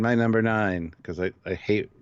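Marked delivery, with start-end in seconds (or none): 0.0-0.9 slow, grand announcer read. Shown as a demonstration. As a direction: drag it out like a game-show host. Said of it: "Say it like an announcer".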